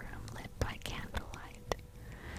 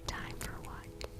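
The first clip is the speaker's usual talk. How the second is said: whisper. A narrator's reading. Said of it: "you whisper back".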